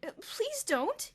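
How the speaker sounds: slow, high pleading. A narrator's reading. Perry begging Elmer, pleading. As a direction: beg him not to. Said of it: "he pleaded".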